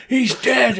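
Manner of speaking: high, dramatic cry; mock-dismayed onlooker. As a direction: announce a death in high-pitched alarm. Quotes onlooker after orc stabbing.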